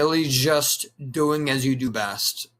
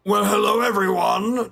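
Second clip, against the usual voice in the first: wrong Vegeta take; 6 semitones higher than usual. Shown as a demonstration. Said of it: "instead of".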